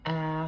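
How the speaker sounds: "ah" said as the open vowel in "trap". Shown as a demonstration. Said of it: "It's the trap vowel".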